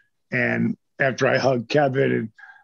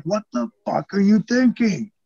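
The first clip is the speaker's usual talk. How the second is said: retold mild anger; 7 semitones higher than usual. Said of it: "he was like".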